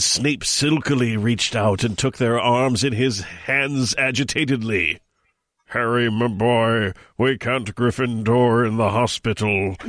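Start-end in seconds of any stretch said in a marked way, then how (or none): 5.7-9.8 whispered. Acted. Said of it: "he whispered".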